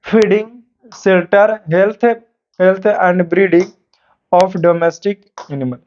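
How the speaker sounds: slow, drawn-out reading of the question; dictation pace. Acted. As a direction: read each phrase slowly so students can write. Slowly reads out the question. (धीमी आवाज़ में सवाल लिखवाना)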